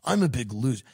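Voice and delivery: mopey, sinking into a low murmur on the middle line; imitating a sulky loser moan; mock self-pity. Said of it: "you can't be like".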